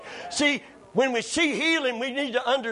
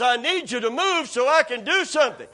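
raised, more forceful demand; insistent demand; 2 semitones higher than usual. Retold or imitated. God arguing back in the retold standoff, insistent demand. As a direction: press the demand harder.

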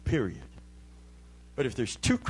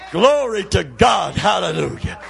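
loud, high praise, easing at the end; shouted praise; 5 semitones higher, 8 dB louder than usual. Real, not acted. Preacher praising God after the climax, shouted praise. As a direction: shout praise as the peak starts to settle.

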